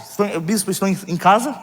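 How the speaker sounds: normal talking voice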